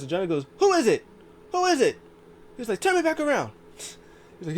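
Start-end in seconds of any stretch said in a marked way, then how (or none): 0.6-2.0 very high, loud yelp; mock panicked shout. Voicing wrestler who can't see. 2.8-3.5 loud, very high-pitched order; imitated high yelp of a command; mock frantic yell. Acting out wrestler's frantic order.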